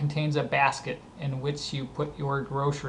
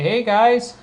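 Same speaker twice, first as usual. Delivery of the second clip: higher, louder informal greeting; calling out; 8 semitones higher, 8 dB louder than usual. Acted. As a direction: call it out to friends across a street. Calling to people on the street.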